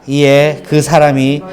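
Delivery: slow, measured Bible reading voice; solemn scripture recital. Acted. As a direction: read the verse with reverence. Reads scripture aloud.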